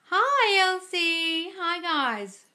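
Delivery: high, slow sing-song hello; bright call-out welcome; excited greeting. Real, not acted. Greeting viewer joining live.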